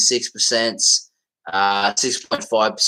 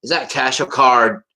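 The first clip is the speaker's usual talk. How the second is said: lightly put-on, nearly American accent. Shown as a demonstration. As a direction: play up the accent on a checkout question. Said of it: "I put on an accent".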